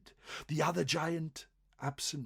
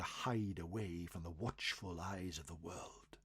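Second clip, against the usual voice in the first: whispered as if hiding; a storyteller's hushed aside; 5 semitones lower, 7 dB quieter than usual. A narrator's reading. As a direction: drop to a secretive whisper. Narrating the giants hiding from the world.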